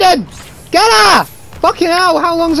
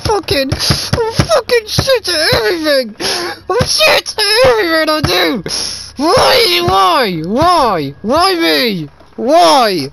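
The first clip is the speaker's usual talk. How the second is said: raging gamer; 3 semitones higher than usual. Real, not acted. Gamer despairs after dying.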